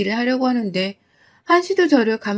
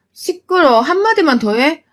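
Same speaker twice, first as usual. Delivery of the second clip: high, loud snapping threat; angry threat; 5 semitones higher, 3 dB louder than usual. Acted. Mother-in-law threatening daughter-in-law, angry. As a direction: shut her up with a threat.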